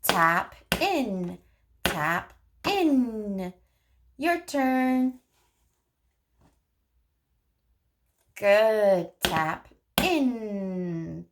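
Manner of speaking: put-on speech therapist modeling turn-taking for a child, sing-song. Shown as a demonstration. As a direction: model it slowly and playfully for a toddler. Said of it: "You could say".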